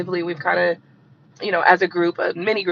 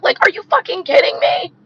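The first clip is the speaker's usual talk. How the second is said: higher, louder, incredulous blast; outraged; 9 semitones higher, 4 dB louder than usual. Real, not acted. Ranting to viewers about the war, loud outraged disbelief. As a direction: really let the outrage out.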